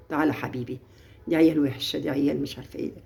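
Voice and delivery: put-on soft, low gentle talk to a child; quiet parental coaxing; tender coaxing. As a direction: ease the son close, gently. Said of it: "لا، انا مش خايفة اقول له".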